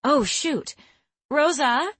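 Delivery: high, loud call across the house; yelling. Acted. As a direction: call out for Rosa. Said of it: "Lucille yelled".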